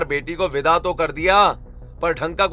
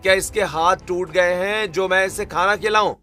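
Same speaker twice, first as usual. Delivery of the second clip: a touch raised, indignant refusal; irritated anger; 3 semitones higher than usual. Acted. Husband refusing to feed his fasting wife, irritated. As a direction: snap back in irritation. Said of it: "आप इतना गुस्सा क्यों कर रहे हैं".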